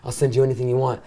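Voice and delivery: fast, breathless eager pleading; eager rush. Retold or imitated. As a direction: rush it out, desperate to please. Retold eager call.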